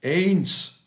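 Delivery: put-on little old man echoing the chime. A narrator's reading. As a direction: call it out in a rising-falling swoop. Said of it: "echote jeder kleine alte Herr".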